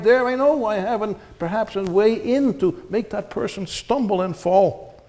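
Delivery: preaching. Acted. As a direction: preach it with urgency. Preacher warning about the devil.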